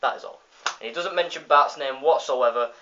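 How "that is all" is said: announcing shout. Retold or imitated. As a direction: list names like a truck loudspeaker. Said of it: "he shouts out".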